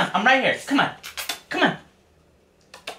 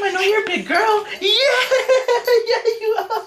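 laughing praise; 3 semitones higher, 3 dB louder than usual. Real, not acted.

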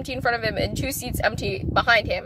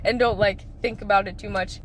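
low, gentle mom voice; calm mom advice; 5 semitones lower than usual. Retold or imitated. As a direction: soothe her like a calm mother. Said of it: "My mom was just like".

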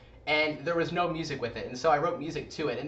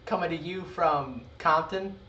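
lightly voiced hood accent intro; casual street-style hood accent greeting. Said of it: "Could you imagine, like".

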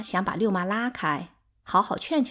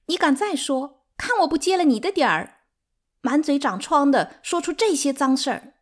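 scornful tirade, building higher and louder; hysterical; 6 semitones higher, 5 dB louder than usual. A narrator's reading. Third wife cursing an ungrateful rival, hysterical. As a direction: spit insults, climbing into a furious threat. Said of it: "歇斯底里地大笑着说".

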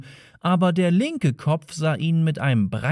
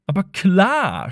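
chattering computer; 6 semitones higher, 3 dB louder, slower than usual. Acted. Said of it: "schnatterte der Computer".

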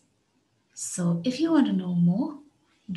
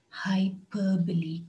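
hyperbole said slowly as hy-PER-bo-le, PER stressed; slow it down and lean on PER in hyperbole; stress on the second syllable; slower than usual. Shown as a demonstration. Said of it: "The stress is on the second syllable".

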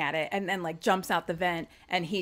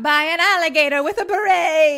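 excited loud reveal; 8 semitones higher, 10 dB louder than usual. Retold or imitated. Telling the scene, loud reveal.

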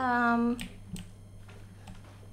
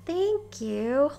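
higher, drawn-out gratitude; touched, lilting thank-you; heartfelt thanks; 4 semitones higher, slower than usual. Real, not acted. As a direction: gush your thanks, stretching the words. Thanking a viewer for support.

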